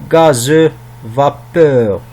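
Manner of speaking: "Gazeux", "vapeur" as separate model words; sound demonstration. Shown as a demonstration. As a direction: sound out each word for pupils, falling on "vapeur". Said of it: "Le son E". (lecture modèle, mot par mot)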